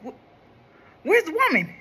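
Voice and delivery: high, startled cartoon neighbor voice; Ned Flanders voice. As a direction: ask it high and flustered, like a scared cartoon neighbor. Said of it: "scream like, uh, Ned Flanders did".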